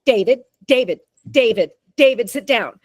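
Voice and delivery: hammed-up exasperated parent calling out; mock parent at a restaurant trying to rein in a kid. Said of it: "someone's going".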